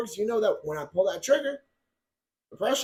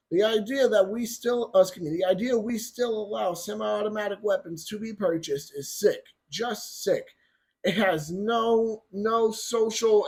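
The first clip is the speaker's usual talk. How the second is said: mock Biden quote. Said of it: "here's his quote".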